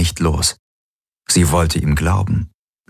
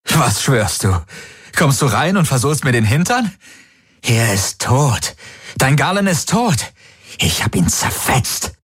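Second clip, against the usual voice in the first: higher, frantic mocking laugh-voice; hysterical mocking; 8 semitones higher than usual. A narrator's reading. The possessor Valyr taunts Kirai, higher and hysterical. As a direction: taunt her, hysterical and hunted. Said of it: "Es klang hysterisch, gehetzt".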